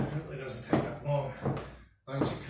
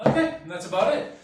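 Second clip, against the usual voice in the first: breathless laugh, louder; 5 semitones higher, 8 dB louder than usual. Real, not acted. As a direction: laugh out the wrap-up. Laugh at workout's end.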